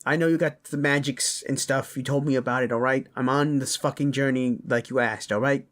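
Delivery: insistent father. Acted. Father enlisting the traveler to rescue his kids, insistent. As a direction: press the listener to come along, a touch heated.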